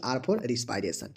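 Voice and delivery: very slow, drawn-out spelling. Shown as a demonstration. Teacher spelling out an acronym slowly for students. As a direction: linger on each word so it sticks. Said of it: "फिर से देखिए".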